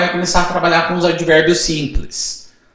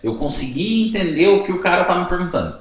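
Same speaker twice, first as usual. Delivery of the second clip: student's relief; 2 semitones higher, 3 dB quieter than usual. Retold or imitated. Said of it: "eles sentem assim".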